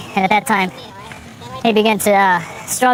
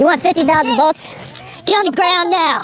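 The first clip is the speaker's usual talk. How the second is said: shouted surrender demands; 8 semitones higher than usual. Real, not acted. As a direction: yell the threat and order. Threatening taser, suspect resisting.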